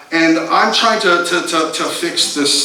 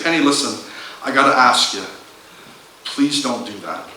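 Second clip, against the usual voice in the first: low, softening, with pauses; earnest plea; 5 semitones lower than usual. Retold or imitated. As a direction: ask it gently and seriously, dropping lower at the end. Husband asks wife to stop, earnestly.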